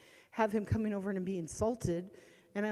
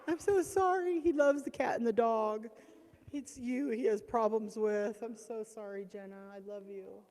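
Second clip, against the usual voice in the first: comforting; 5 semitones higher, 5 dB louder than usual. Retold or imitated. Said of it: "And I said".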